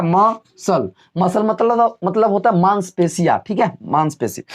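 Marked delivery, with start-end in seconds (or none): 0.0-0.9 "मसल" broken into ma, sal; syllable by syllable. Shown as a demonstration. Teacher drilling students, "मसल" split into ma and sal. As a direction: say "मसल" in two parts, no k. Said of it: "क्या हो गया?".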